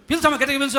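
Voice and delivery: high-pitched urging to inhale hard; mimicked breathing coach. Doctor urging an old lady to inhale, high mock urging. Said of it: "అన్నాడు".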